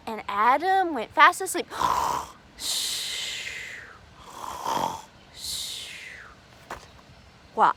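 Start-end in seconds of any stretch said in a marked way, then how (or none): 1.7-6.2 soft unvoiced shush; whispered shh. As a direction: hush the children, Adam is asleep. Hushing while Adam sleeps.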